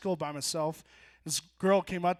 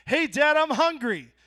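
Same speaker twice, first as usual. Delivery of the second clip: put-on kid voice; 6 semitones higher, 5 dB louder, slower than usual. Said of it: "I'd be like".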